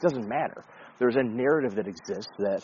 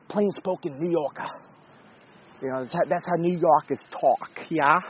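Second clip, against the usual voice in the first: mock New York accent; 3 semitones higher than usual. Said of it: "I don't know what accent that was".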